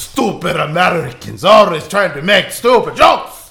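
comic Russian accent, hammed-up scolding; mock Russian accent. Player mocking stupid Americans, mock Russian accent. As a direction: grumble like a cartoon Russian. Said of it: "in Russian".

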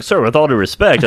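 lightly voiced customer service politeness. Clerk to upset check-cashing customer, mild customer service voice. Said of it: "my customer service voice".

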